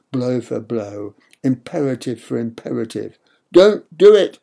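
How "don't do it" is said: loud, high thundering command; thundered. A narrator's reading. Bad mother forbidding the boy, thundering. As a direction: bellow it to stop him. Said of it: "thundered the bad mother".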